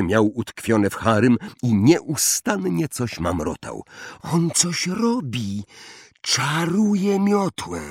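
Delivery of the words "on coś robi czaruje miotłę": put-on much higher, slow alarmed girl's voice; tense and certain, raising the alarm; Hermione alarmed. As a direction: Hermione warns Ron, high and tense. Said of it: "powiedziała Hermiona".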